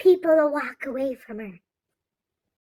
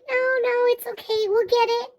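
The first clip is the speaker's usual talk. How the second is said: higher, eager reassuring clerks; store workers; 7 semitones higher than usual. Retold or imitated. Workers calming the quarrel, higher eager voice. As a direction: chirp it brightly like a helpful clerk. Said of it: "the workers are like".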